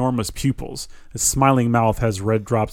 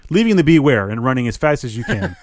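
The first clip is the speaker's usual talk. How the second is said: 1 re-read with a laugh; 4 dB louder than usual. Shown as a demonstration. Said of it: "Hang on".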